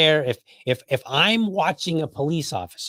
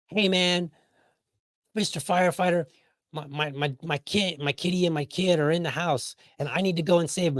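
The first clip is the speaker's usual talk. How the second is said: higher-pitched, halting plea; mock pleading parent; 4 semitones higher than usual. Parent telling firefighter his kid is inside, mock pleading. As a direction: stammer a mild mock appeal for help.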